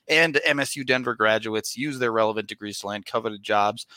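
upbeat sponsor read. Acted. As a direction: read it like a podcast ad. Reads sponsor ad.

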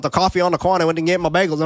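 put-on quick-fire New York accent; imitated East Coast accent. Host imitating TikTok talkers about bagels, East Coast accent. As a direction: rattle it off like an East Coast local. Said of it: "huge fan of those accents".

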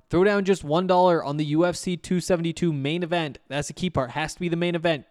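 upbeat sponsor read. Acted. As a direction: sell the promo like a host-read ad.

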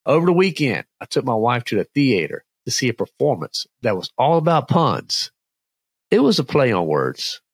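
upbeat, punchy joke delivery; telling a dad joke. Acted. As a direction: set it up, land the pun. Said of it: "dad joke time".

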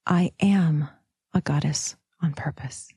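affirmation with the weight on "am"; stress on am. Shown as a demonstration. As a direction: lean on "am", then pause before finishing. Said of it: "emphasizing the am".

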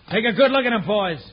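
angry orders. Acted. Rancher orders men to shoot.

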